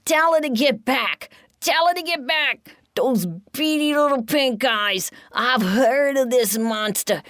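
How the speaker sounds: high, loud panicked pleading; frightened rat begging Giddle for help; terrified shriek. A narrator's reading. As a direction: shriek it out, backing away from the monster. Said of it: "Joey shrieks".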